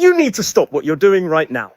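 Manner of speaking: low loud demand. Acted. Protester bursts in.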